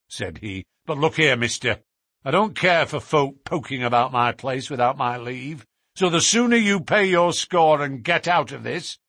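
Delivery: warning the stranger off, barely civil; surly innkeeper. Acted. Innkeeper Hayes voiced gruffly.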